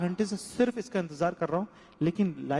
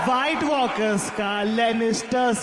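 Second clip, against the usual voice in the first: filmi revenge dialogue; 4 dB louder, much slower than usual. Pretend. Quoting Faizal's revenge line, filmi.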